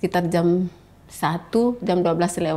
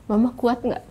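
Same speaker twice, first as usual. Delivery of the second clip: put-on higher child's question; retold boy's question, pitched up; imitating her son; 5 semitones higher than usual. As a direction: lightly voice a boy checking on his mother. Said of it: "anak saya yang laki-laki".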